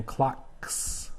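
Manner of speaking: "clocks" with a long hissed S; unvoiced S ending. Shown as a demonstration. Teacher introducing the next word, "clocks" with hissed ending. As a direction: stretch the final S of "clocks". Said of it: "and that's unvoiced".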